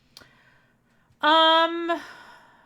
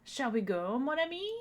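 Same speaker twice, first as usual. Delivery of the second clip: bad French accent; 3 semitones higher than usual. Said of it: "my bad French accent".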